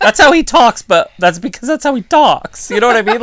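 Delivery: amused laughing explanation. Real, not acted. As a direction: laugh through the excuse. Laughing defending wrestler.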